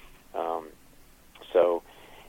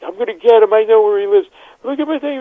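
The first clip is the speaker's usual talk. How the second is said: very high, loud put-on voice yelling revenge; hammed-up furious screech; angry threat; 7 dB louder than usual. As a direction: howl it like the cut guy raging. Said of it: "And he's like".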